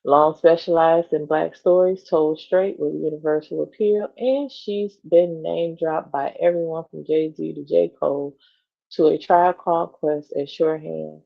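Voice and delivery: even, measured magazine read; article read-aloud. Acted. Co-host reading a celebrity profile to the other, measured read-aloud.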